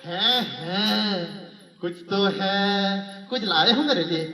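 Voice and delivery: slow, sing-song teasing wife; coy wife fishing for gifts. Retold or imitated. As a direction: draw it out coyly, angling for a present. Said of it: "वो बोलती है". (धीमी, गुनगुनाती, नखरेबाज़ पत्नी)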